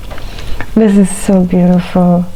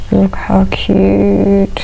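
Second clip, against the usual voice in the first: whispered cooing; much slower than usual. Real, not acted. Cooing over food, whispered.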